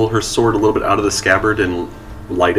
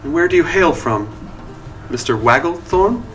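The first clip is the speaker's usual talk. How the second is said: prim noblewoman; 6 semitones higher than usual. Acted. Noblewoman questions gnome.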